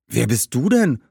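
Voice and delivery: put-on mildly astonished young boy. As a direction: ask with a touch of amazement. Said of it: "fragte Augustinus erstaunt". (leicht erstaunt gefragt)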